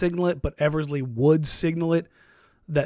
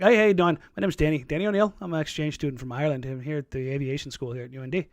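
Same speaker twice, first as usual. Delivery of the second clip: put-on Irish accent. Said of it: "I would fake an accent".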